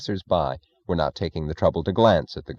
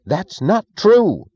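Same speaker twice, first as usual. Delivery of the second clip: high, loud and slow protest; crying out; 13 semitones higher, 6 dB louder, much slower than usual. Acted. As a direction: cry it out in alarm. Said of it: "he cried".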